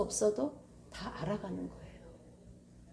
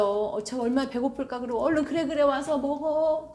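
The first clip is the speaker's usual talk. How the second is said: tender mother; 3 semitones higher, 5 dB louder than usual. Retold or imitated. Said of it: "하나님 마음이에요".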